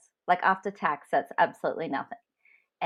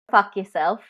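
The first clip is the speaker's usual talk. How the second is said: sharp, louder retold curse at the boss; angry retort; 2 semitones higher, 8 dB louder than usual. To the executive who refused her raise, a loud angry retort. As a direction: spit it out at him, fed up. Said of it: "fuming, to say the least".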